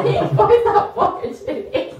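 words squeezed out through laughter; breathless giggling while talking; laughing. Real, not acted. Laughing at partner's easy guess.

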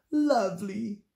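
a touch of a pleased sigh; contented sigh. A narrator's reading. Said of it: "she sighed".

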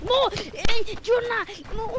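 yelling his teammate's name, high and loud; shout. Real, not acted. Gamer yelling at teammate Yona, high loud shout. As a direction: call out to Yona across the map.

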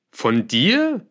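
high, surprised echo question; taken aback, rising sharply. A narrator's reading. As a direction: ask it back, pitch shooting up. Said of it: "Melchior wirkte überrascht".

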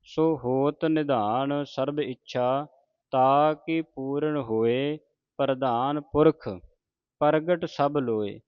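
slow, measured sacred reading; deliberate Gurbani recitation for learners; scripture recitation. Acted. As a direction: recite phrase by phrase, stretching the vowels.

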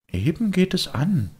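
put-on high, know-it-all kid; a cocky boy brushing him off; smug boyish voice; the boy's voice. Boy answers.

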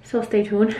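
breathless, shallow breathing. Real, not acted. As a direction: talk short of breath. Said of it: "Sorry I'm out of breath".

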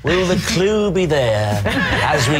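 mock David Frost. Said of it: "I'm doing David Frost".

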